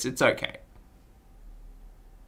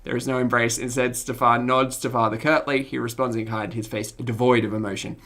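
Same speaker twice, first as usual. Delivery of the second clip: lower, even, softer storytelling; game master's narration; 3 semitones lower, 5 dB quieter than usual. Acted. Game master describing a family greeting, measured narration. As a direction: narrate the scene evenly.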